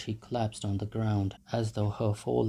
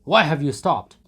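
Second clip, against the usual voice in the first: loud, high urging; egging shouts; 5 semitones higher, 12 dB louder than usual. A narrator's reading. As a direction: goad him on. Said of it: "shouts were heard in the crowd".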